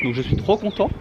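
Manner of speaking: high, delighted burst; thrilled. Real, not acted. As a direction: gush with real joy. Thrilled after the treatment.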